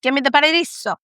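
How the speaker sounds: mock Italian accent, movie-quote style; hammed-up Italian mobster line; Godfather. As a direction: play up the Italian accent, punching key words. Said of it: "like The Godfather saying".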